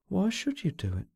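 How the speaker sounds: high, understated fearful question; frightened. A narrator's reading. She asks why he would kill, frightened. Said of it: "she asked in a frightened voice".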